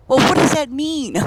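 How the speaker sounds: high-pitched retold bafflement; baffled question. Friend asking about mucky muck, baffled. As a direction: imitate a puzzled friend pressing for meaning.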